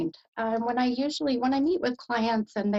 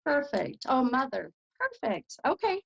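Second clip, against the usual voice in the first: light, breathy joy that the name hit home; delighted; 5 semitones higher than usual. Real, not acted. Medium thrilled at the confirmed name.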